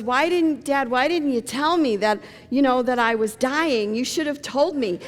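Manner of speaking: put-on upset kid. Sick son upset at dad.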